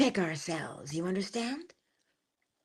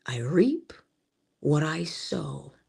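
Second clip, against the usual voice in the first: whispered; 4 semitones lower, slower than usual. Acted. Whispered key phrase to listeners.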